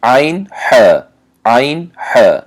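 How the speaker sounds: عین، ح pressed out from the middle of the throat; mid-throat articulation. Shown as a demonstration. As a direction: demonstrate عین، ح firmly from mid-throat, each set apart. (ادای عین، ح از میانهٔ حلق)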